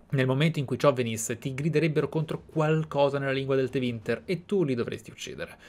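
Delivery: ordinary talk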